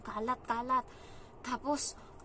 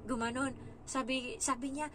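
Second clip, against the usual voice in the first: usual speaking voice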